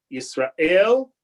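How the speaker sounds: Yisrael with the weight on the final syllable, el; stress on the last syllable. Shown as a demonstration. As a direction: land on the end of Yisrael. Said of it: "stressed on the last".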